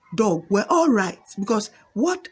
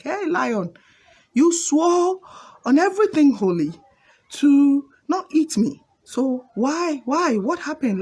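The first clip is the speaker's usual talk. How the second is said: raised-pitch acted protest at betrayal; wronged young man demanding answers; indignant protest; 6 semitones higher, 4 dB louder than usual. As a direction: challenge the lion, higher and insistent. Betrayed young man confronts the lion.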